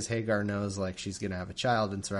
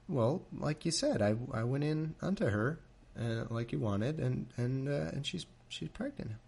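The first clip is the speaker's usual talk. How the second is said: nervous Abram; 3 semitones higher, 4 dB quieter than usual. Retold or imitated. Abram admitting the pregnancy to Sarai, shrinking and hesitant. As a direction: mumble it out like a guilty husband. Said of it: "Abram goes".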